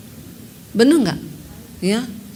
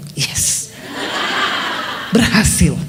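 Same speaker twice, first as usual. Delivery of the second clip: whispered yes, then a low pleased berhasil; a secret little victory to herself; inner cheer; 6 semitones lower, much slower than usual. Retold or imitated. Dalam hati saya gini.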